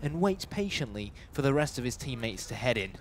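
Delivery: running esports commentary in measured phrases; live play-by-play. Real, not acted. Esports caster follows a retake of the bomb site, live play-by-play. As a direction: narrate the action as it unfolds, phrase by phrase.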